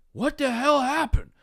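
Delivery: high, slow incredulous officer; high-pitched mock disbelief; retold astonishment. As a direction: imitate a shocked onlooker, drawn out and high. Officer reacts to the wreck.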